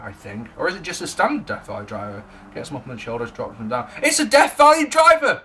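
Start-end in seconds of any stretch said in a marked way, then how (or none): 4.0-5.4 loud, high wrestling call; hammed-up commentary yell; excited commentator call. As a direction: shout the move like a ringside announcer.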